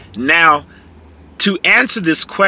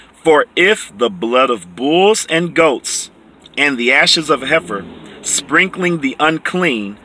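slow, deliberate scripture reading; 2 semitones lower than usual. Shown as a demonstration. Preacher reading verse thirteen to the congregation, slow and deliberate. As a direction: lay each phrase down slowly. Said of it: "I'm gonna read it real slow".

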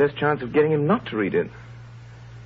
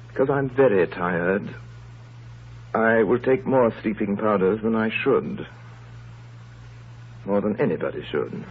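resigned; 3 semitones lower than usual. Acted. Murderer plans overdose.

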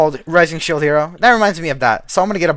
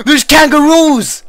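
high, slow, amazed cry; gasping surprise; 11 semitones higher, 8 dB louder, much slower than usual. Real, not acted. Streamer spotting kangaroos in the game, amazed. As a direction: gasp then marvel at it.

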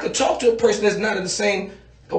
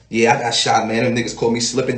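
mock rapper reply; 8 semitones lower than usual. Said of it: "You're like".

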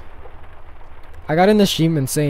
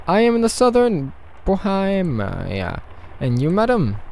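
put-on higher, slightly halting Russian accent; 6 semitones higher than usual. Leos tells madam where he is, Russian accent. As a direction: answer courteously in a Russian accent. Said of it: "I'm doing a Russian accent".

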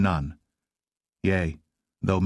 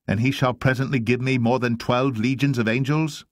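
higher, insistent reproof; firm admonition; 4 semitones higher than usual. Acted. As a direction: admonish with voice held high, rising to a challenge. Jesus admonishes disciple with sword.

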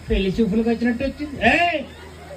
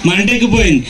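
laughing; 3 semitones lower, 5 dB louder than usual. Real, not acted.

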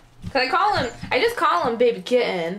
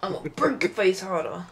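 low gravel vigilante growl. Acted. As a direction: gravelly growl trying to outdo. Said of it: "We do gravel voice".

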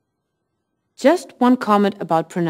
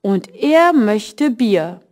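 slow, careful German read for learners; slow teacher demo reading; slow model sentence; slower than usual. Shown as a demonstration. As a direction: spell it out slowly for the class.

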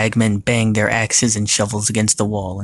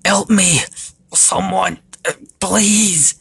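high, desperate cry for help; calling out; 10 semitones higher, 3 dB louder, slower than usual. A narrator's reading. Argus dangles over lava, calling out desperately. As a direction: call out pleading, pitched up. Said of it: "He called out".

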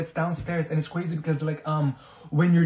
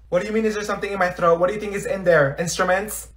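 defensive retort; 3 semitones higher, faster than usual. Acted. Defensive about the throat noise.

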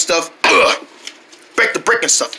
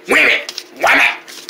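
angry; 3 semitones higher, much slower than usual. Shown as a demonstration. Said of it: "more anger".

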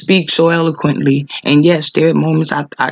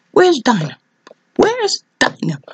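crying out; 8 semitones higher than usual. Real, not acted. Preacher crying out repeatedly.

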